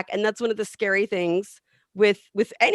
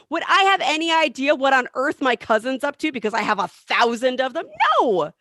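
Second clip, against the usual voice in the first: emphatic, raised voice; yelling into mic; 4 semitones higher than usual. Real, not acted. Speaker excited about cousins on Facebook, mildly yelling. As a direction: get carried away and raise your voice. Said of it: "I'm yelling into the mic".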